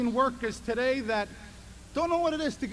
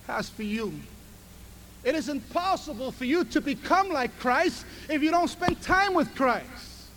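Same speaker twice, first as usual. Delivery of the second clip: ordinary delivery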